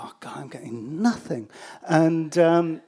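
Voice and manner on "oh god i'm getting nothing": whispered to himself in despair. Retold or imitated. Interviewer thinking to himself about the useless robot, whispered. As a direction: breathe it out, defeated.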